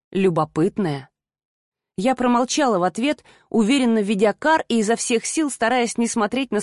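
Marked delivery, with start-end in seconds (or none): 0.1-1.1 mildly voiced smirking man. A narrator's reading. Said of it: "хмыкнул Рик".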